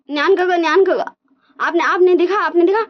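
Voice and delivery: high, hurried, panicky pleading; frantic worry. Retold or imitated. Wang ji rushing to tell big brother, high frantic pleading. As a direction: sound like everything is falling apart.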